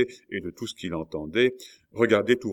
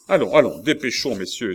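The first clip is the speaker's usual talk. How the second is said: raised, louder hurrying call; urgent cry; 4 semitones higher, 7 dB louder than usual. A narrator's reading. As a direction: hurry the men along. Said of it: "s'écria Maurevel". (s'écrier pour presser la troupe)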